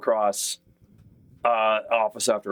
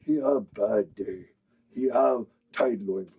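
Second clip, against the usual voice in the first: orc voice; 4 semitones higher than usual. Acted. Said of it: "comes over and goes".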